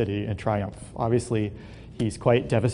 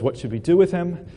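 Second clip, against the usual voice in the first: higher, louder demand from the angry king; a king hearing of the plot, asks in outrage; upset king; 6 semitones higher, 4 dB louder than usual. A narrator's reading. King demanding to know what to do, upset and raised. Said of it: "the king is clearly upset".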